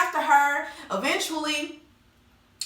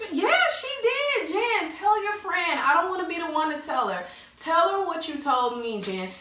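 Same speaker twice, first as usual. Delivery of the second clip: pressing accuser voice; 4 semitones higher than usual. Retold or imitated. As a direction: needle her to confess in a high sing-song. Shawnee presses Jen, voiced.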